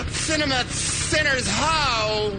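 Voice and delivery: slow, drawn-out battle cry; rallying cry. Pretend. Host rallying the club onto their Vespas. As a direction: call the gang to ride out.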